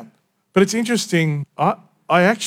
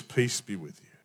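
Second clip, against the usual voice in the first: gentle peace; 6 semitones lower, 14 dB quieter than usual. Acted. Jesus appears to frightened disciples.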